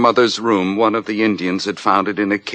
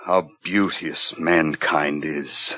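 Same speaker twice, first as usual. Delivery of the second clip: bitter quote; 2 semitones lower, slower than usual. Acted. Bitter Shakespeare quote alone.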